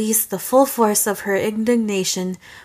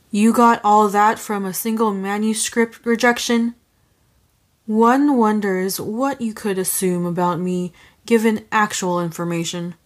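sneering. Acted. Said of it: "he sneered".

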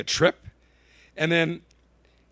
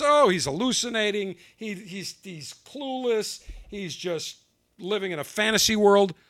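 mocking the press; 3 semitones higher than usual.

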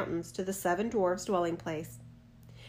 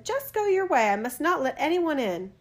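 put-on young girl refusing; 6 semitones higher, 4 dB louder than usual. A narrator's reading. Snow White refuses the peddler.

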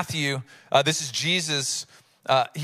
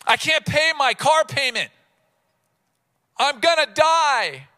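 anxious; 7 semitones higher, 4 dB louder than usual. Acted. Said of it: "It's the language of anxiety".

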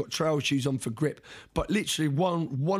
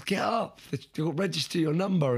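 higher, lightly voiced fiancée; fiancée urging; 4 semitones higher than usual. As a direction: mimic her impatient push.

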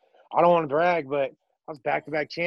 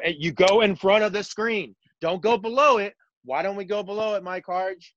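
emphatic coach, pitched higher; 5 semitones higher than usual. Shown as a demonstration. Coach lecturing the Twitter world, emphatic and higher. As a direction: drill the point home like a coach. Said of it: "everybody who's played basketball knows".

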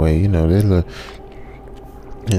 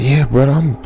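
rising higher and higher into a squeak; shaken excitement; 8 semitones higher than usual. Retold or imitated. Narrator pointing at the dust, climbing into a squeaky panic. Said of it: "I was like".

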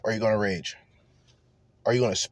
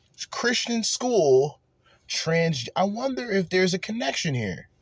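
sarcastic insinuation; 7 semitones higher than usual. Real, not acted. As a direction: say it like a knowing hint. Mocking insinuation about the shooter.

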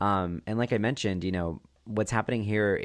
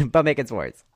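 laughing echo; 5 semitones higher, 8 dB louder than usual. Real, not acted. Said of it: "repeating laughing".

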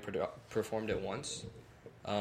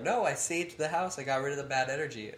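lightly voiced mom, higher and louder; imitating mom; 4 semitones higher, 4 dB louder than usual. Mother defending her saging to her kid, imitated insistence. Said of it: "she was like".

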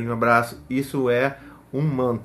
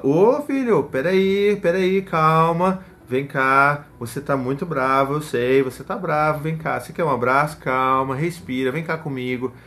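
put-on calming the child; 4 dB louder, slower than usual. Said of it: "Você fala".

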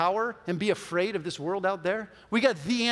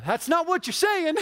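laughing disbelief; 11 semitones higher than usual. Retold or imitated. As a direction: burst out laughing as you correct him. Retold friend laughing at his mistake.

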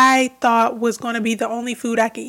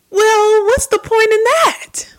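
forceful raised whisper, much higher; incredulous whisper; 9 semitones higher, 6 dB louder, slower than usual. Retold or imitated. To listeners, voicing her own disbelief in a raised whisper. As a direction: hiss it out in disbelief. Imagined reaction to unmasking.

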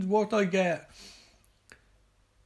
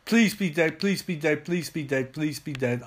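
panicking gamer. Real, not acted. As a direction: beg desperately, trailing off. Begging zombie stays dead.

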